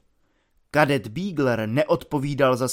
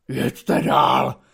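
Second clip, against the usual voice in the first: delirious hoot; 2 semitones lower than usual. Acted. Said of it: "hlasem jako v delíriu houkl".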